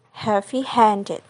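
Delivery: "heavy-handed" slowly, main stress on "handed". Shown as a demonstration. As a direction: lighter on "heavy", lean into HAND. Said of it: "primary stress is on the second word".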